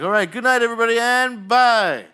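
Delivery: high, loud showman's farewell; big projected closing call; show sign-off. Pretend. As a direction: belt out goodbye to the whole audience. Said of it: "so I'm like".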